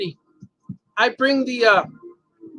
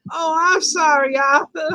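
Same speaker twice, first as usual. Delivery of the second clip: slow, high apology broken by laughter; laughing apology; 6 semitones higher, slower than usual. Retold or imitated. Retelling her apology, laughing through.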